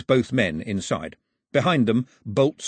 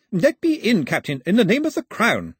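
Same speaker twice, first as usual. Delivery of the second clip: high, loud demand at the door; urgent shout; 11 semitones higher, 5 dB louder than usual. A narrator's reading. Gentleman hammering on the wheelhouse door, shouting to be let in. Calling through door in a storm.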